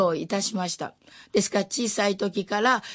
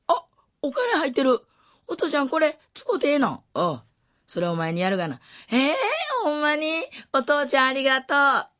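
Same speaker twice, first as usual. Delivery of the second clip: put-on much higher, excited girlish delight; overjoyed surprise; 9 semitones higher than usual. Daughter finding father's money, high excited delight. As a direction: squeal with joy at the money.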